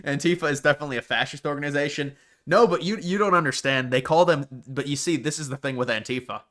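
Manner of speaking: mock-earnest, deadpan sarcasm; sarcastic. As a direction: pretend to agree, dripping irony. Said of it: "I'm being sarcastic".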